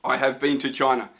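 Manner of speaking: stiff, robotic uncontracted reading. Shown as a demonstration. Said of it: "we sound a bit like a robot if we talk like that".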